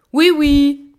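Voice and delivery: high, loud impatient call; cri. A narrator's reading. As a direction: call out loudly towards the door. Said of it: "cria-t-elle". (cri aigu et fort)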